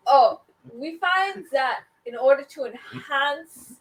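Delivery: fake German accent. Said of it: "I love that he's German".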